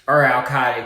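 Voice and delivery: Al-Qaeda drawled in a southern accent. Shown as a demonstration. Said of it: "excuse my southern accent".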